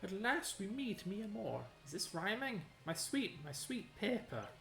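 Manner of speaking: a lovesick Italian pixel, slow and high; Italian accent. Acted. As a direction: croon it like a mock Italian romantic. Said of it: "It has an Italian accent".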